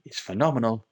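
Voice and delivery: mock German accent, drifting in and out; put-on German accent. Minecraft tutor explaining a chicken farm in mock German accent. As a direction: play a German engineer with a lightly put-on German accent. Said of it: "I don't know where my accent is going".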